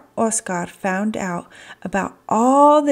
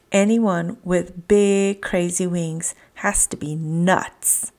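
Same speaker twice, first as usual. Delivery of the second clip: scoffing. Acted. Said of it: "scoffed Wiggly".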